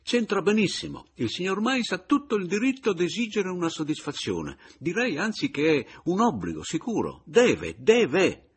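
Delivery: voce alta e forte, ossequiosa ma decisa; Papiano insistente. A narrator's reading. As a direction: incalza con zelo. (Papiano che insiste con enfasi)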